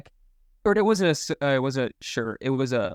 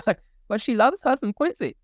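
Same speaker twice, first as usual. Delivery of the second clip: laughing high through the words; 9 semitones higher than usual. Real, not acted. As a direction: laugh while saying it. Laughing, high character-ish.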